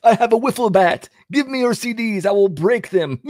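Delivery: high, menacing cartoon clown; evil clown voice. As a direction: threaten like a sinister clown. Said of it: "the secular C D smashing clown".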